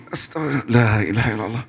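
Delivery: pained invocation, acted; demonstrated pious moan of pain; praying through pain. Shown as a demonstration. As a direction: groan out the holy words as if hurting. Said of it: "iya sakit ngomong nih".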